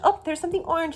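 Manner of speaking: high delighted find; pleased, you spotted it; excited discovery. Shown as a demonstration. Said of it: "demo finding orange".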